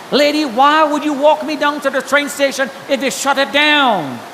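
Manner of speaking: high, exasperated question; incredulous objection. Retold or imitated. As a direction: challenge an absurd suggestion. Retold objection to pointless walk.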